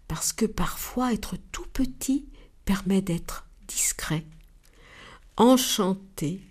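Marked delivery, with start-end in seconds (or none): 0.1-4.2 soft whisper, breath only. Acted. The dove whispers a compliment to the little ant. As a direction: share it like a secret.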